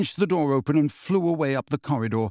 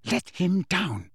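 slow, higher, firm order; stern demand; 5 semitones higher, slower than usual. A narrator's reading. Lily to James over his bullying, stern demand. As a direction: demand it slowly and firmly.

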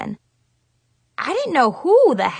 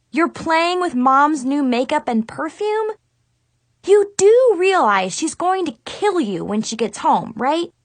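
scolding; 4 semitones higher than usual. Acted. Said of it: "I scolded her".

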